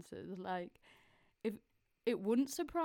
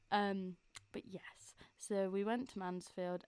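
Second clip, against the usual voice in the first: ulcer under tongue. Real, not acted. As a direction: speak gently over a painful mouth sore. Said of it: "it really hurts to talk right now".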